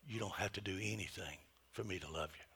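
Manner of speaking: soft whispered I love you; whispering to kids. Retold or imitated. Parent holding a frustrated child close, whispering. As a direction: hush it close to a child's ear. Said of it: "and I'd whisper".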